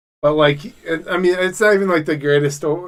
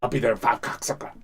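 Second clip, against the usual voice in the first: Joey Diaz impression; 3 semitones lower, 4 dB quieter, faster than usual. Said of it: "He's like".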